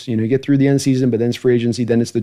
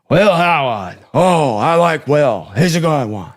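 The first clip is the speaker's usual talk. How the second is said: higher, slow, drawn-out praise; a half-landed Gruden voice; Gruden impression; 4 semitones higher, slower than usual. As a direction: gush over the player like the coach. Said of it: "it's not right there".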